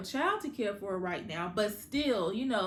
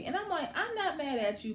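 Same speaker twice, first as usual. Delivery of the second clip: laughing; 6 semitones higher than usual. Real, not acted. Laughing reaction to Kevin.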